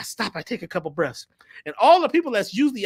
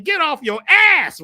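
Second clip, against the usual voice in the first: loud, high, drawn-out command; hammed-up rebuke, slow and forceful; scolding ancestors; 8 semitones higher, 9 dB louder, slower than usual. Ancestors order the drummer to get moving, mock scolding. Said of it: "This was my ancestors saying".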